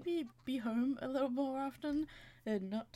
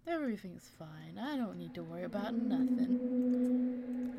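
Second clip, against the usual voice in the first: hint of a nonchalant pet, swelling as it goes; imagined carefree dog; 4 dB louder, slower than usual. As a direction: build to a slow, loud last line. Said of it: "He's like".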